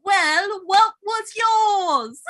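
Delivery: loud, high, stretched mock British accent; attempted British accent. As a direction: wail it in an exaggerated British accent. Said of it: "I'm doing an accent".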